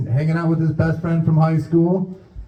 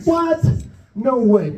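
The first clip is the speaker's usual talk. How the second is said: retold disbelief; 8 semitones higher, slower than usual. Storyteller shocked at request.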